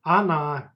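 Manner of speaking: Она with the first vowel sounding like а; Она demo, unstressed О as а; O pronounced like a. Shown as a demonstration. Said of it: "it's pronounced like а".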